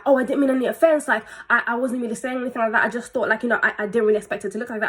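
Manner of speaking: hurried, stumbling excuses; flustered mock apology; backtracking. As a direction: imitate someone rushing to take it back. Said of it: "starts to backtrack and kind of be like".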